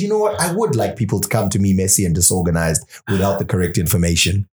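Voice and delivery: sarcastic. Retold or imitated. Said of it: "who sits here and says".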